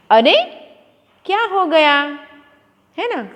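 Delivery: teacher showing an exclamation of surprise. Shown as a demonstration. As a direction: gasp it out as if shocked. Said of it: "आश्चर्य".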